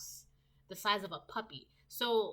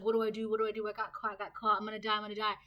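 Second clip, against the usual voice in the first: louder, frantic mock panic, each line repeated; panicked caught spy; 4 dB louder, much faster than usual. Caught TV spy backed into a corner, mock frantic panic. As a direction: play the cornered spy begging in a hammed-up panic. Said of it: "And they're just like".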